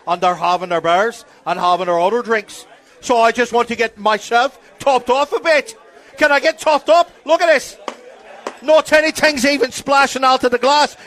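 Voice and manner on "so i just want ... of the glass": put-on Irish drunk. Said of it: "I'm just doing an Irish accent".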